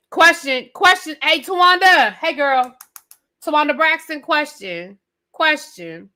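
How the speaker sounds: high, insistent call for attention. Pretend. Host hails an absent reality star with questions, calling out.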